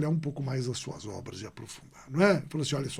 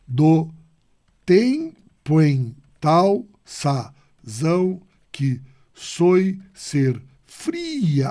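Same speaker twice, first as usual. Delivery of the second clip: very slow, each syllable louder and spaced; slow syllable counting; 6 dB louder, much slower than usual. Shown as a demonstration. Teacher counting the ten syllables for the class, slowly. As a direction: tap out the ten syllables one by one. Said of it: "ele bate dez".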